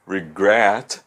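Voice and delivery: regret with GRET stressed; stress on last syllable. Shown as a demonstration. Teacher illustrating strong final syllables, regret with GRET stressed. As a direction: split regret as re-GRET, weight on the end. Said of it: "elas são as últimas sílabas fortes".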